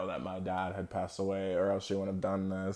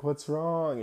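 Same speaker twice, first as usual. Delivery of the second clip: higher, gently imitated concern; concerned teacher; 7 semitones higher than usual. Teacher asks crying Steven, gentle concern. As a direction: ask it like a caring teacher.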